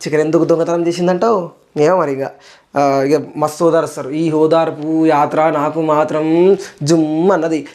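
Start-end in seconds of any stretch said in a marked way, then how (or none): 4.1-7.7 sarcastic aside. Real, not acted. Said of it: "families చూడా ఈ ఓదార్పు యాత్ర?".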